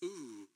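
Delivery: low, soft wincing "ooh". Retold or imitated. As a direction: imitate a repairman's quiet, worried ooh. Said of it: "each one of them on the phone go".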